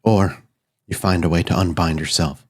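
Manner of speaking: measured, grave offer of a binding bargain; lightly voiced solemn figure. Spirit lays out terms of the binding, lightly voiced solemn figure. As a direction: state the terms with slight solemnity.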